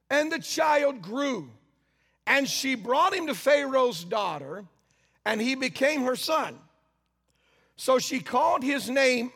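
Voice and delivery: slow, solemn reading of scripture. Acted. Preacher slowly reads the Bible to the congregation. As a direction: read the verses slowly, weighing each line.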